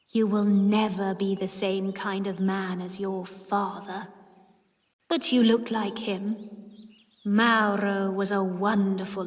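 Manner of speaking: lightly voiced aunt, slow and wistful. A narrator's reading. Aunt talking to herself about her lover, mildly wistful.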